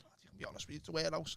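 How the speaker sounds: mock whisper. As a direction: lean in and whisper like a conspirator. Boss voiced in retold interview.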